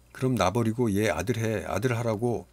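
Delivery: a jealous son shouting at his father; honking sulky child. Acted. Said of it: "거위 소리 같았다". (거위 같은 뾰로통한 아이 목소리)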